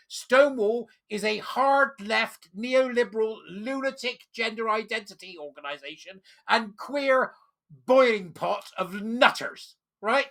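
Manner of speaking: slow, forceful ranting; heated rant. Real, not acted. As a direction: hammer each insult home. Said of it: "in a calmer way".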